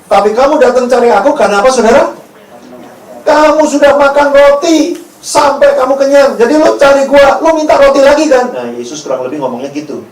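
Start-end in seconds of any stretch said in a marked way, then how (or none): 0.1-8.5 raised, insistent confrontation; preacher voicing a pointed accusation; Jesus's blunt rebuke. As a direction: call them out, pitched up and forceful. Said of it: "Yesus bilang gini".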